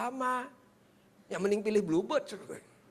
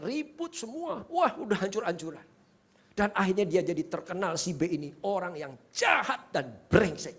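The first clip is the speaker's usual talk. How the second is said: emphatic preaching; 3 semitones higher than usual. Real, not acted. Preacher describes troubled B to congregation, emphatic preaching. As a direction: stretch and punch the damning words. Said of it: "Saya tidak teriak-teriak begini".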